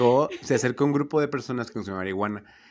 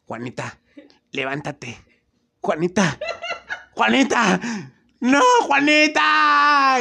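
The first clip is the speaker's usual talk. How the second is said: calling out; 7 dB louder, much slower than usual. Retold or imitated. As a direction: keep calling her name, louder and higher each time, last one stretched slow. Hermana intenta despertar a Juanita. (llamando a Juanita, de suave a gritos agudos y lentos)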